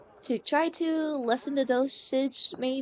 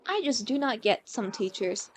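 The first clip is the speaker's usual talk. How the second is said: teary; 6 semitones lower, 4 dB quieter than usual. Real, not acted. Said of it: "if I sound very teary".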